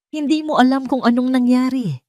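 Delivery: shouting at his mother. Acted. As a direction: throw it back at her in anger. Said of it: "sigaw ni Gabriel".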